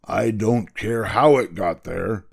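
slow, emphatic royal impatience; stern king. Acted. King dismisses the boy's excuse, sternly impatient. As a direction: brush the excuse aside firmly.

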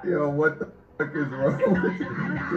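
shocked laughter. Real, not acted. Reacting to a clip.

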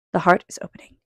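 hushed reading aside; whisper. Real, not acted. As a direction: breathe the words to the listener. Soft reading pause, whispered line.

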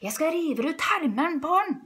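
high, loud villain outburst; angry threat. A narrator's reading. Furious farmer threatens the fox thief. (sint, høylytt trussel)

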